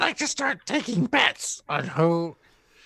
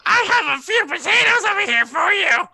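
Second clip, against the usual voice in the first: calling across; 7 semitones higher than usual. Acted.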